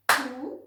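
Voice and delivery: Couteau cut in two, loud on each clap; syllables clapped. Shown as a demonstration. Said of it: "Puis on tape chaque syllabe". (Couteau tapé, fort, une syllabe à chaque frappe)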